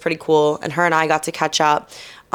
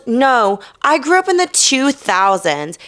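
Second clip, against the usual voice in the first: offended retort; 5 semitones higher than usual. Retold or imitated. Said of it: "He was so mad about that".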